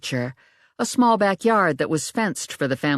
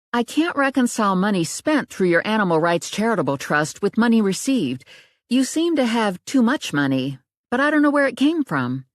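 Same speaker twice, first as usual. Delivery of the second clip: higher, rising with frustration; voiced young accountant, frustrated; Riley's voice, puzzled; 7 semitones higher than usual. A narrator's reading. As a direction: lay out the problem, baffled.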